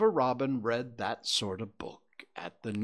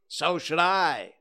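emphatic rabbit; 6 semitones higher, 6 dB louder than usual. A narrator's reading. Rabbit's emphatic agreement in story.

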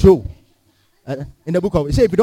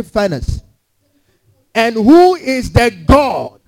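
raised, menacing voice of a boasting king; boastful king; 5 semitones higher than usual. Acted. A preacher voicing the king threatening the three men, menacing. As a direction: threaten them like a proud tyrant.

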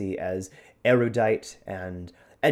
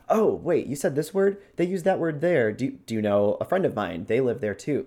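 higher, excited in-character questioning; surprised recognition; 4 semitones higher, 3 dB louder than usual. Acted. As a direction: play a character eagerly recognizing a word. Voicing an NPC recognizing slang.

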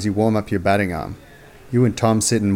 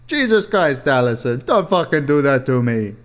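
startled; 5 semitones higher than usual. Acted. Startled by girlfriend.

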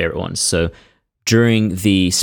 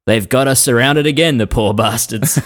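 a hint of a bold general, a bit higher; cocky general quote; 5 semitones higher than usual. Quoting a general surrounded by enemies, lightly voiced. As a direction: toss it off like an unbothered commander. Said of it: "Adams is supposedly said".

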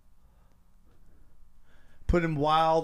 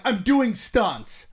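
slow disbelieving repeat; 2 semitones higher, much slower than usual. Retold or imitated. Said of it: "I'm like".

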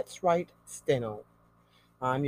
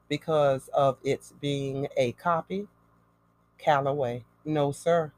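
dictating. Shown as a demonstration. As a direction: dictate clearly for a stenographer to write. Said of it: "ready to write, should I say?".

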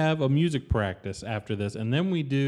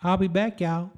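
Southern gentleman voice; 3 semitones higher than usual. Acted. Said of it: "in your effeminate Southern gentleman voice".

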